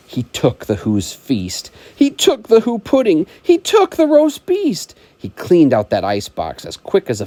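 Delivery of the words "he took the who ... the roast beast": higher and louder with each item; building climax. Acted. Reading the stolen feast, rising louder. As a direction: climb on every took.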